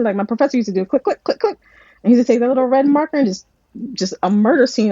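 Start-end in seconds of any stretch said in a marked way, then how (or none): 0.8-1.6 clicking noise. Retold or imitated. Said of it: "that red clicking".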